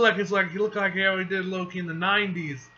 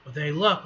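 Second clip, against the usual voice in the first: "luck" louder and lifted above the rest; stress on luck; 5 dB louder, faster than usual. Acted. Hero hedging a risky plan, stress on "luck". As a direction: lean on the word "luck". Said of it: "Emphasis on the word luck".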